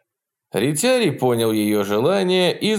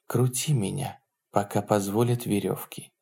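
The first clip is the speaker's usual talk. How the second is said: soft whispered command; hushed, intimate instruction; 5 dB quieter than usual. A narrator's reading. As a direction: give the order under your breath. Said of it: "прошептала".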